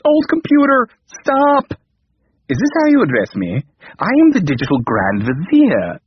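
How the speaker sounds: loud, high shout of stop. A narrator's reading. King shouts at the computer to stop, loud and high. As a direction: yell to halt the machine. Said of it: "the king shouted".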